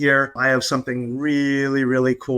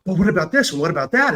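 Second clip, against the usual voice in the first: mildly fretful questioning, slightly raised pitch; worried inner chatter; 3 semitones higher, much faster than usual. Acted. Inner chatter interrupting the calm self-talk, mildly fretful. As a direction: lightly act out the nagging inner voice. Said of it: "then the chatter starts".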